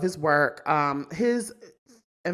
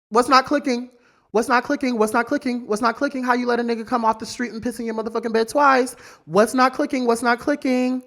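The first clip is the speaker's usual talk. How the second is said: exasperated repeating; 5 semitones higher, 5 dB louder than usual. Real, not acted.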